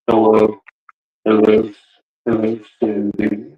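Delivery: a hint of a low movie killer; lightly voiced menace, pitched a little down; Ghostface. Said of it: "do the Ghostface voice".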